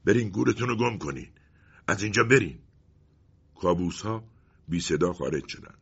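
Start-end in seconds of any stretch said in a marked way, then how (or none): 0.0-2.6 angry dismissal. Acted.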